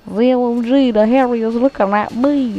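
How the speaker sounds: high, hammed-up alarm; mock panicked kid. Imitating a kid spotted by the Harrier, mock panic.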